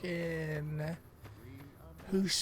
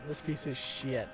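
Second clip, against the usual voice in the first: repeated mock disgust; 4 dB quieter, slower than usual. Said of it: "we can get rid of this piece of shit".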